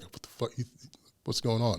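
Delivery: hushed, breathy disbelief; imitating a stunned whisper; retold whisper. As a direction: whisper it in shock. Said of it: "he's like".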